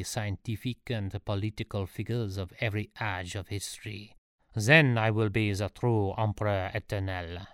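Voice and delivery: a would-be emperor addressing his subject; lightly accented story character; self-assured ruler's pronouncement; lightly voiced Napoleon.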